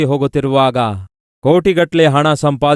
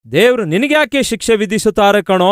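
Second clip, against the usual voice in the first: incredulous question; 7 semitones higher than usual. Retold or imitated. Friend disbelieves God punishes him.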